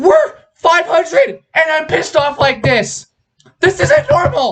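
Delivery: voice breaking way up, very high. A host urging viewers to subscribe, voice cracking. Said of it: "I'm voice cracking now".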